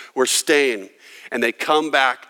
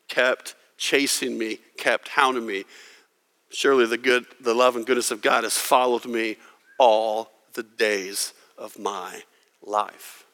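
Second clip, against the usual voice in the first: hushed tender close; 4 semitones lower, 4 dB quieter than usual. Acted.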